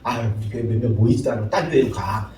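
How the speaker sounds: laughing, low, mocking grumble; mock the disloyal member with a laugh; mocking complaint. Preacher mimicking a complaining member, laughing. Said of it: "우리 교회는".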